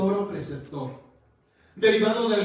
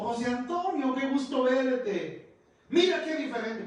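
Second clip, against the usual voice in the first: teacher's delighted greeting; 6 semitones higher than usual. Retold or imitated. Old teacher greets grown pupil.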